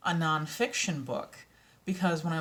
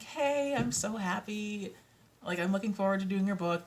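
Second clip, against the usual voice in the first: sweetly eager greeting; 3 semitones higher than usual. Retold or imitated. Messaging the rights holder about the book, high and eager. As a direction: pitch it up, politely delighted. Acting out polite message to client.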